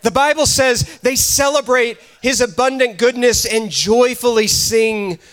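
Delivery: fervent sermon delivery; a pastor exhorting his church; preaching. Acted. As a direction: preach it with conviction. Preaching to congregation.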